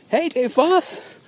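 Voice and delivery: slow, drawn-out high holler, imitated; high-pitched call. Friend calling from the Kenmore Square crowd, high drawn-out call. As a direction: call out high, stretching the name.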